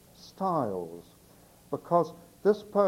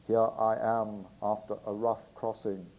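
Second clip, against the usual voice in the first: Barnacle Bill voice; 4 semitones lower than usual. Acted. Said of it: "the Barnacle Bill voice for Barnacle Bill".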